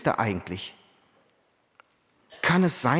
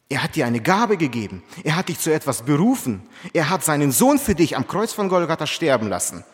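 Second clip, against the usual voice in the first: rising preaching force; 2 semitones higher, 5 dB louder than usual. Real, not acted. Preaching climax.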